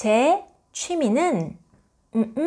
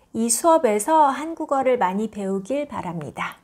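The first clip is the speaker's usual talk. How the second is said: model sentence; much faster than usual. Shown as a demonstration. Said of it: "So it goes".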